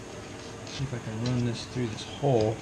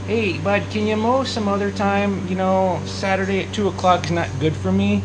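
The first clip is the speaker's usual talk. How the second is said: raised, higher voice calling to a neighbour; 8 semitones higher, 3 dB louder than usual. Real, not acted. Man calls to neighbour mowing during filming, raised and high. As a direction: call over the mower noise.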